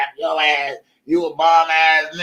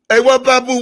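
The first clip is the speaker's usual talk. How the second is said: mock lady; 8 semitones higher, 5 dB louder than usual. Repeated mock quote.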